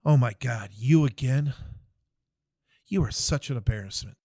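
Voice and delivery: the captain berates the private in the hole, in a loud exasperated rant. Retold or imitated. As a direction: chew him out like a fed-up officer.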